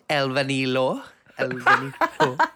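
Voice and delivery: loud Welsh-sounding take on Basque; mock Welsh accent. Co-host teasing his friend's Basque attempt, loud mock Welsh accent. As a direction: mimic a botched Basque accent that comes out Welsh. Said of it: "why do you sound Welsh".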